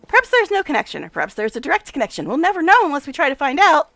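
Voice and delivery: lightly played brisk, self-important scientist; a touch of the mad professor, pleased; eccentric scientist. Nenio reasoning.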